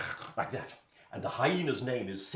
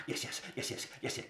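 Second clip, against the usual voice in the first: giggling hyena; 3 semitones higher, 3 dB quieter, faster than usual. Acted. Hyena giggling yes to the king.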